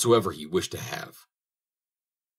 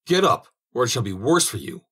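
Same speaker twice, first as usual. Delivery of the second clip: angry cry; 4 semitones higher, 5 dB louder than usual. Acted. Soldier shouting at the dead girl's bones, loud angry cry. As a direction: bellow it in frustration, pitch climbing on get up. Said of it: "cried he".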